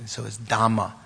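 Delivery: "dhamma" with a doubled M in place of the R; Pali dhamma. Shown as a demonstration. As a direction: swap the R for M: "dhamma". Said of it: "the R to a M".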